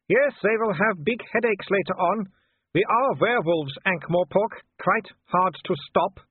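Wolfgang. Acted. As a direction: sneer at the cornered man from below. Wolfgang's voice held.

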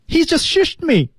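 very high, slow cartoon complaint; high-voiced imitation. Teacher models Marty's shushed line, very high. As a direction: squeal it high, word by word.

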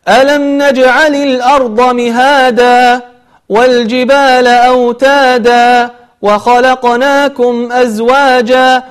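slow, melodic tajweed chant; Quran recitation. Shown as a demonstration. Teacher reciting example verses, chanted with lengthened vowels. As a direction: recite verses with long open endings.

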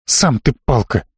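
understated cross retort, low-key; angry hiss. A narrator's reading. Inga retorts to the questioner, mildly angry hiss. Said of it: "зло прошипела Инга".

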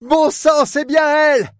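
high, loud cry of disbelief; exclaiming. A narrator's reading. Port man recognises the boat, loud exclamation. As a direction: cry out, hardly believing your eyes. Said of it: "s'écria le responsable du port".

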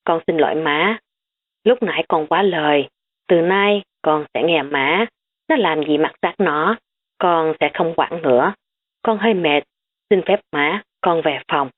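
worn-out daughter-in-law, understated; lightly tired apology; mild tired voice. Acted. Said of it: "cất giọng mệt mỏi".

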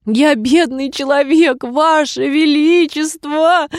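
slow, high, drawn-out wail; drawn-out plea. A narrator's reading. Hatter drawling his plea to the king. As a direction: stretch every word out pitifully. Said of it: "опять затянул он".

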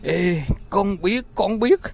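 high, strangled gasping plea; choking. A narrator's reading. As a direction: beg while being choked. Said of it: "con nghẹt thở".

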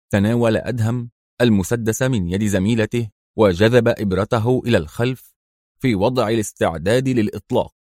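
plain reading voice

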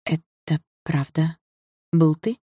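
slow, calm question; surprisingly calm. A narrator's reading. Girl asks rival if he was guilty, calm. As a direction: ask slowly and calmly. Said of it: "спросила я на удивление спокойно".

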